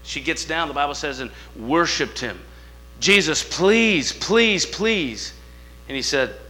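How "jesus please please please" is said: pleading mother. Retold or imitated. Canaanite mother begging Jesus.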